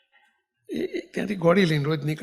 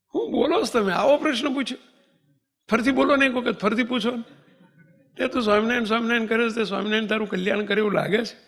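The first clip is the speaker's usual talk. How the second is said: astonished; 3 semitones higher, faster than usual. Retold or imitated. Devotee astonished at the question.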